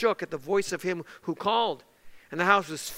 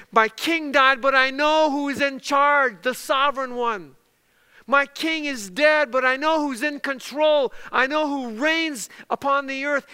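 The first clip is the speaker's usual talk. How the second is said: lightly voiced prophet, raised pitch and volume; Isaiah's declaration; 4 semitones higher, 4 dB louder than usual. Preacher voicing Isaiah after his king's death, emphatic declaration. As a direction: proclaim it with firm, building conviction. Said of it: "it was his way of saying".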